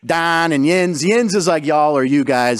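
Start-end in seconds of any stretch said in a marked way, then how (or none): 0.0-1.0 Yinzer dialect, "Don" for down; Pittsburgh accent. Shown as a demonstration. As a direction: show off Pittsburgh vowels in "Don". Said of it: "We have this accent in Pittsburgh".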